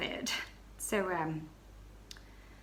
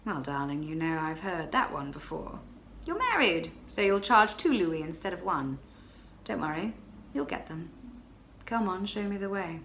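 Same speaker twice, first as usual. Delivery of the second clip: a hint of a smug client brushing her off; lightly voiced cocky man; 2 semitones lower than usual. Stranger dismissing the baroness's protests, lightly lowered. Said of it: "he says".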